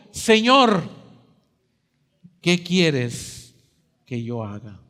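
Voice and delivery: a hint of fear, asked out plainly; trembling plea. Saul on the ground asks the Lord, mild trembling. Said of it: "él temblando y temeroso le dijo".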